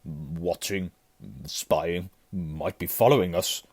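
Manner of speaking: halting paranoid mutter; muttering wildly. A narrator's reading. Uncle suspects spies around house, muttering wildly. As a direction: mutter it in broken pieces. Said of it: "muttered Uncle Vernon wildly".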